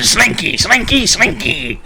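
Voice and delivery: high teasing chant of the word slinky; singsong taunting dad. Retold or imitated. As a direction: taunt him in a playful singsong. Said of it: "And he goes".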